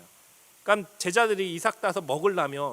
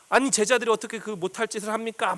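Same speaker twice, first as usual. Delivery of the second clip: higher-pitched imitation of indignant accusers; agitated protest; 5 semitones higher than usual. Pharisees challenging Jesus over his disciples, agitated protest. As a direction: act out a worked-up objection. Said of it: "막 이처럼 막 흥분해가지고".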